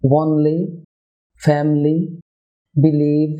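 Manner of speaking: "Only, ফ্যামিলি, বিলিভ" with a light L; touch the L with the tongue tip; clear, light syllable-initial L; thin L. Shown as a demonstration. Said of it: "পাতলা এল".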